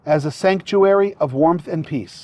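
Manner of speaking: officiant feeding vows phrase by phrase; short phrases with pauses. Shown as a demonstration. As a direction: say each phrase, then pause for the repeat. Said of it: "repeat phrase by phrase after me".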